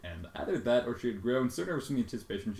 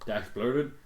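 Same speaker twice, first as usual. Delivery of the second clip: ordinary talk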